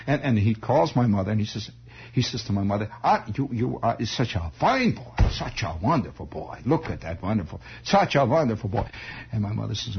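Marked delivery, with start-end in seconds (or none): 3.0-8.9 put-on doting old uncle, light German accent; vague German accent. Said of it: "they all had this vague German accent".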